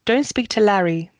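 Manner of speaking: LARRY falls at the end; warning, with LARRY sinking in pitch; falling inflection. Shown as a demonstration. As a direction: let LARRY drop away negatively. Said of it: "you'll put a falling inflection".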